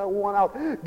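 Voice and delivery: soft, fed-up plea to God; quiet mock despair; disgusted. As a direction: mutter it like a beaten prayer. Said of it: "we become disgusted with the world".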